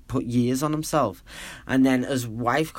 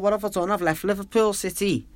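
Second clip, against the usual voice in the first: high-pitched wail of regret, retold; mock a homesick lament without real tears; retold tearful despair; 7 semitones higher than usual. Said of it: "I just burst out crying".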